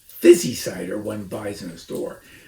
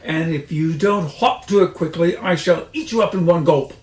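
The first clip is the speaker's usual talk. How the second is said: menacing fox; 4 semitones higher, 7 dB louder than usual. A narrator's reading. Fox threatens the rat.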